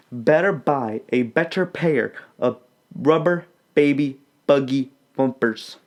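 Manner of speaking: put-on "rubber baby buggy bumpers" said crisply; teacher modelling the twister; careful diction drill. Shown as a demonstration. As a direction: articulate each b. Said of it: "Say it with me again now".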